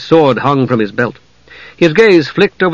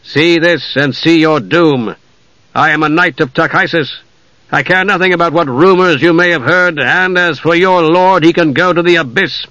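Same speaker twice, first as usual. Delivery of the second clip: lightly voiced proud knight, slightly raised; defiant knight; 4 semitones higher than usual. Knight shows his insignia to the elves, defiant. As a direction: declare it with measured defiance.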